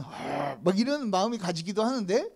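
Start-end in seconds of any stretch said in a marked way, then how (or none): 0.0-0.6 low, rough groan of annoyance; imitated grumbling sigh; inward exasperation. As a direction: let out a private exasperated "argh". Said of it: "막 속으로는".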